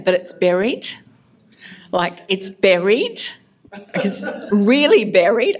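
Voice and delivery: plaintive protest, each line rising at the end. Retold or imitated. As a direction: push back as if asking to be let off. Arguing back to God.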